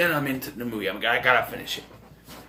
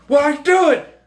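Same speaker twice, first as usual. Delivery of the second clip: higher, loud yell; Keith David yelling; 11 semitones higher, 9 dB louder, slower than usual. Retold or imitated. Keith David yelling at Hatcher, loud. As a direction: shout it at him. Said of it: "Keith David is yelling at him".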